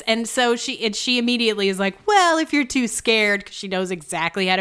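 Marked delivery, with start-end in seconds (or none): 2.1-3.5 high, slow mock taunt; obnoxious. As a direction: goad them in an exaggerated singsong dare. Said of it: "Emily is so obnoxious".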